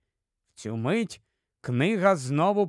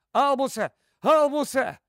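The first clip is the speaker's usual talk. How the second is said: high, worried calling; frightened call; 7 semitones higher than usual. A narrator's reading. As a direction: call his name twice, rising in alarm. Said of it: "Скорпій перелякано гукає".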